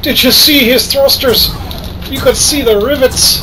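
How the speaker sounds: excited Irish accent; excited gamer. Real, not acted. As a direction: crow about a near miss in Irish. Excited gamer dodging ships in combat.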